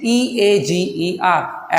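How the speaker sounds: slow letter-by-letter spelling; slow spelling of eager; spelled out. Shown as a demonstration. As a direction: spell ई ए जी ई आर slowly, each letter apart. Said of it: "Spelling will be same".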